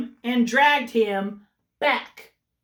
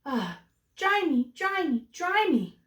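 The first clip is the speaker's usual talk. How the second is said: crying chick; 6 semitones higher than usual. Acted. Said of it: "cried the soggy baby chick".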